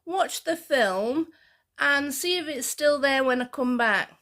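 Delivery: high, airy singsong of her past self; mock breezy self. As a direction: play it careless and carefree, stretching "watch the film". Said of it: "And I go".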